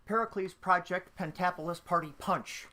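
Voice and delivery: Pericles Project Pentapolis Party Punch, crisp plosive P's; tongue twister. Shown as a demonstration. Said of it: "you could always say".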